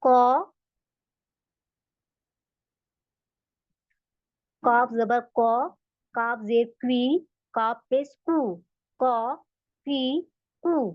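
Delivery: कॉ क्वी कू slow, from the back of the throat; drilling qaf vowels. Shown as a demonstration. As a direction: sound out each syllable slowly. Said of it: "ये देखिए इसके example".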